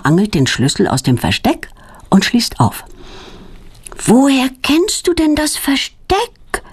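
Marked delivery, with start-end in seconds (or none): 4.0-6.6 put-on high, slow astonished girl's question; amazed question. A narrator's reading. Claudia asks Petronella in amazement, high and slow. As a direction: she can't believe her friend knows the hiding spot. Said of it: "fragt Claudia erstaunt".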